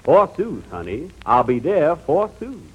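mock Shakespearean lover, lightly played; hammy stage actor. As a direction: ham up the old-fashioned words. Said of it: "Doc Benny's version of the greatest love story".

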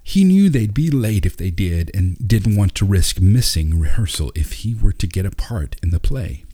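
ordinary delivery, nothing marked

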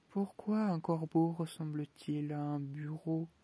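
Mad Hatter riddle. Acted. The Hatter teasing Alice with a riddle, slow and sly. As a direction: drawl the riddle out like a mad host.

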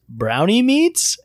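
slow, high questioning repeat; baffled echo. Retold or imitated. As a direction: repeat it slowly, rising in disbelief. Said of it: "he looks at her, and he goes".

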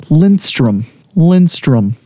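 name announced in a hammy mock Scandinavian accent; bad Scandinavian accent. Host presenting a quiz name to the panel, bad Scandinavian accent. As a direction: put on an awful Scandinavian accent. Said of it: "I'm gonna do my best Scandinavian accent".

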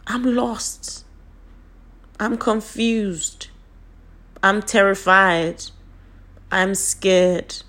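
slow, emphatic admissions with long pauses between; drawn-out, separate statements of feeling; deliberate declarations. Shown as a demonstration. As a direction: state each feeling plainly and slowly. Continues modelling how to name feelings.

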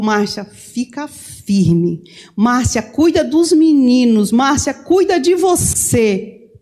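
slow, heavy, drawn-out farewell words; husband's farewell. Retold or imitated. Husband tells wife Márcia goodbye from hospital bed, slow and heavy. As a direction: hand over his last wishes slowly.

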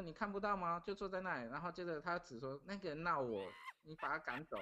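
a hint of a toddler pleading with dad; small child. Little son asking his dad to chase the man away, lightly childlike.

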